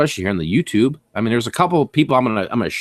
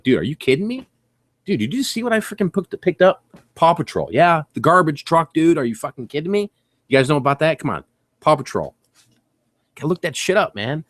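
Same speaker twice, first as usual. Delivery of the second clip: excited; 4 semitones higher than usual. Retold or imitated. Excited over Paw Patrol truck.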